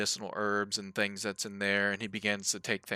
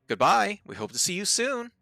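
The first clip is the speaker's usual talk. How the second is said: high, loud screeching doll voice; 12 semitones higher, 8 dB louder than usual. Acted. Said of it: "the doll's voice sorta screeches out at you".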